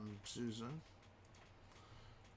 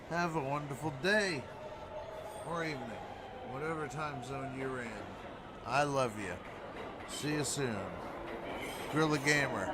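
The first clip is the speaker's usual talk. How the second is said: loud sign-off; 2 semitones higher, 5 dB louder, faster than usual. Real, not acted. Loud sign-off to stream viewers.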